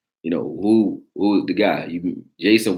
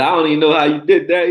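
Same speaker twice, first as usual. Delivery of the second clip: mock incredulous; 8 semitones higher, 5 dB louder, faster than usual. Retold quote, voiced.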